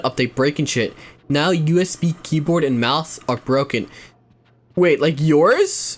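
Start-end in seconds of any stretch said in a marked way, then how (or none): 4.8-6.0 surprised, slow. Real, not acted. Surprised at broken keyboard.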